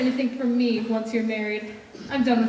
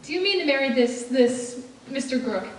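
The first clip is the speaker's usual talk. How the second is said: put-on old tycoon. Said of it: "the grumpy rich aunt".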